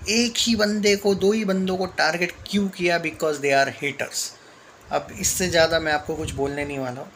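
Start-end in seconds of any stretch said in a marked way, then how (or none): 3.0-4.3 slow pointed verdict. Real, not acted. Vlogger to fans, calling the critics haters, very slow and pointed. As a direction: drag out each word, very slow. Sums up accusation slowly, pointedly.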